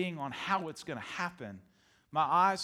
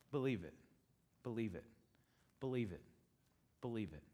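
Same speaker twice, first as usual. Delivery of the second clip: softening repeats; 8 semitones lower, 10 dB quieter than usual. Shown as a demonstration. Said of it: "time and time again Jesus said it".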